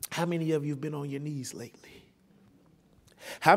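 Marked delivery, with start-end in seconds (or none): 0.1-2.0 soft, fast whisper to the congregation; whispered question. Acted. Preacher asking the church about prayer, hushed whisper. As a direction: lean in and whisper it.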